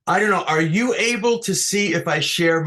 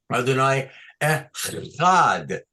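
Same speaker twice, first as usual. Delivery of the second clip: echad said slowly with the stress on the final syllable; slow stressed demo; 3 semitones lower, slower than usual. Shown as a demonstration. Teacher models accent of echad for the class, slow. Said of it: "this trope sign is under the chet".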